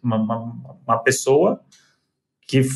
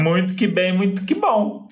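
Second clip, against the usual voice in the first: voz aguda brincalhona; 6 semitones higher, slower than usual. Pretend. Playful sign-off banter.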